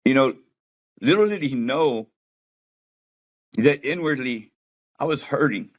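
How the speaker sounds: really moved, halting between phrases; choked up. Real, not acted. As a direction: pause to hold back real emotion, voice lifting a little. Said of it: "This gets me too".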